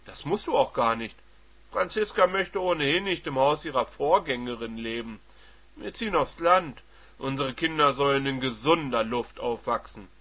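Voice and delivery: loud, smug announcement; smug husband. Acted. Husband telling his wife about his new partner, smug. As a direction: twist the knife calmly.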